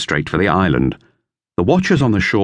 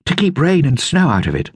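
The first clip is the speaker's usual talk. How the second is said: higher, lightly voiced boy; boy's voice, lifted higher; Dick; 10 semitones higher than usual. A narrator's reading. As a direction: read it as young Dick. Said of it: "said Dick".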